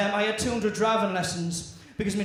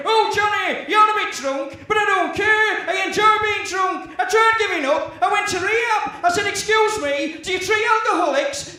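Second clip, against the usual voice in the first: put-on high, loud, slow slurred northern drunk; Johnny Vegas impression; 8 semitones higher, 4 dB louder than usual. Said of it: "if you don't want to sound like I'm from Saint Helens".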